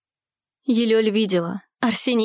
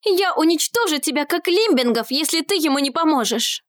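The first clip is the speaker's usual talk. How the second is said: angry threat; 7 semitones higher than usual. A narrator's reading. Girl threatens creature to help.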